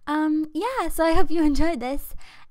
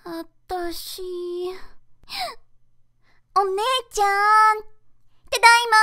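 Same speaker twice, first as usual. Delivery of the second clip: put-on high cute anime girl; 6 semitones higher, faster than usual. Voice acting anime girl lines.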